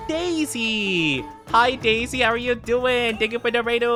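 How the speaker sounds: high, bright excited greeting; cute anime streamer. Real, not acted. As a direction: squeal hello to a friend.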